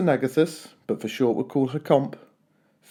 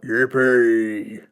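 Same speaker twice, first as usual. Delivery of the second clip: cried out; 3 semitones lower, 3 dB louder than usual. A narrator's reading. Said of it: "the T's cried out".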